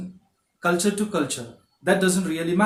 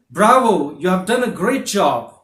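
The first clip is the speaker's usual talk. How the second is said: loud praise; 6 dB louder than usual. Shown as a demonstration. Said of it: "For example".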